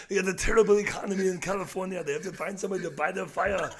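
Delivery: Arnold Schwarzenegger. Acted. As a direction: push on in a mock Austrian accent. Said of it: "Do some Arnold?".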